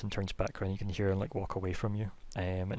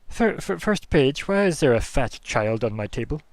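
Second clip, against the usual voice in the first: put-on flustered old wizard; 5 semitones higher, 9 dB louder than usual. High Enchanter demanding why a boy lies on his table, loud stammer. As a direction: stumble over the name, then indignant.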